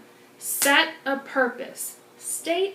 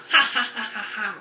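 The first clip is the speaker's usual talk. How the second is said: evil scientist laugh; 2 semitones lower than usual. Acted. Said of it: "we're like an evil scientist experimenting".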